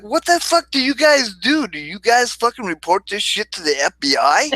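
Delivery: playing up his shock at the nurses; incredulous outburst.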